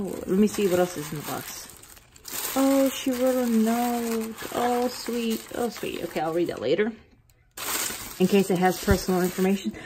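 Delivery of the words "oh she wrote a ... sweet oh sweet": touched. Real, not acted. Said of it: "taken aback by that sweet gesture".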